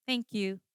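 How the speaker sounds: "thank you" tossed off with no emotion; flat thank-you. Shown as a demonstration. Trainer shows agents the wrong thanks, flat and emotionless. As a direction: say "thank you" briefly, without lift or feeling. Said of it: "No, that's so flat".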